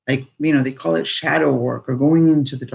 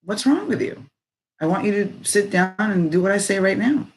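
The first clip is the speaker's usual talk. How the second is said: higher-pitched mock family disapproval; high-pitched mock scolding, not shouted; disapproving relative; 5 semitones higher than usual. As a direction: imitate a baffled, bossy relative. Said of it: "they're looking at you like".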